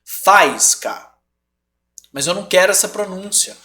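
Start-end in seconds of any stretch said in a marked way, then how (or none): 0.0-1.1 Faísca with the í stressed as its own syllable, fa-ÍS-ca; split syllables. Shown as a demonstration. Teacher modelling the hiatus, stressing the í. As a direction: say Faísca with the í stressed and kept apart from the a. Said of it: "Eu quero que seja faísca".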